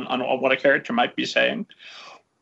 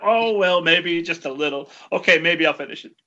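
grudging relenting; 3 semitones higher than usual. Retold or imitated. Reader caving on a vow at a new book, mock-reluctant. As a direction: give in by degrees, playing it up. Acting out younger self relenting.

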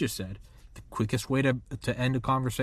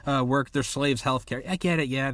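sarcastic concession; 6 semitones higher than usual. Real, not acted. Brushing off greed arguments to the host, high mocking sarcasm. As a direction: roll your eyes and concede with sarcasm.

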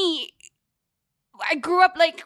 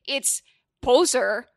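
mocking listener; 3 semitones lower, 3 dB louder, much slower than usual. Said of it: "make fun of it and say".

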